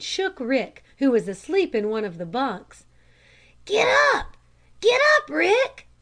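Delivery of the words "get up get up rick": much higher, loud wake-up call; urgent call. A narrator's reading. Chot waking Rick in the bunk, loud urgent call. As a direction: call out to rouse a sleeper. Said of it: "Chot called".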